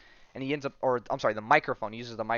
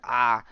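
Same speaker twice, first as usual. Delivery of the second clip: acted cry of headache pain; a brief, louder "ah" of pain; 7 dB louder than usual. Prisoner struck by a splitting headache, acted pained cry. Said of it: "He's splitting headache".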